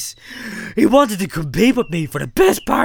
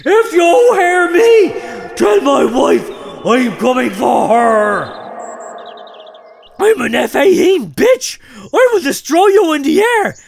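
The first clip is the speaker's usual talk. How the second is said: foghorn shout; 2 semitones higher than usual. Retold or imitated. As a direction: bellow it from the balcony. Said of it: "unleashed my powerful foghorn voice".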